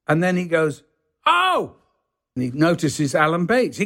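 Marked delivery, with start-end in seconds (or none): 1.2-1.8 high-pitched, astonished exclamation; imitating sudden recognition. Lorry driver notices a second actor, mock astonishment. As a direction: act out spotting a star, pitch leaping up.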